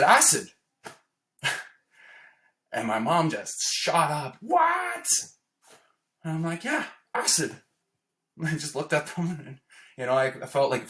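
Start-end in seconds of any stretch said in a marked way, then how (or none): 0.0-0.5 higher, louder blurt of one word; just blurt it out; blurted confession. Retold or imitated. Son finally confessing to his father, blurted loud. 4.4-5.1 a shrieked, much higher mock mother's gasp of shock; a mom's horrified what. Mother jumping up on hearing acid, shocked shriek. 6.6-7.5 much higher, lightly mocking reply; giddy confirmation. Son confirming acid to his shocked mother, giddy.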